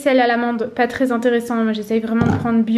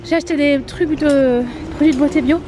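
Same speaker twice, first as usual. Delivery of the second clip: breathless, winded from walking; out of breath. Real, not acted. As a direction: talk while catching your breath. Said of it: "je suis essoufflée".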